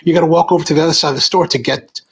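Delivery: fast, rushed, fed-up retelling; exasperated rant. Retold or imitated. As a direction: rattle it off in mock disbelief. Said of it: "I was like".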